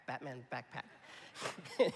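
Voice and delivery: slow, laughing Batman backpack; laughing through it. Shown as a demonstration. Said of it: "I can't even say it".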